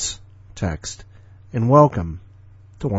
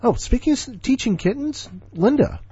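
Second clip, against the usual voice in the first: much higher, silly squeak of an intro; playful falsetto lead-in; squeaky voice; 13 semitones higher than usual. Pretend. Host's sudden squeaky intro.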